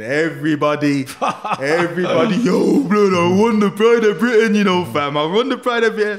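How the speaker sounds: loud, high re-enacted celebration; hammed-up jubilant shout to friends; excited shouting. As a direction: yell the big news down the phone. Re-enacts phoning everyone about winning.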